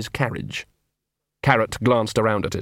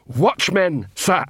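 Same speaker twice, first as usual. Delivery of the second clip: a dim troll sounding off proudly; troll shouting to attention; 7 semitones higher, much slower than usual. Acted. Troll guard shouting his captain's name.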